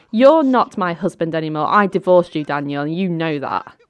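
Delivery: mild acted shout, loud at first; shouting over him. Ex-wife shouting over her former husband, mildly loud. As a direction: talk over him forcefully, then ease off. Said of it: "shouting over him".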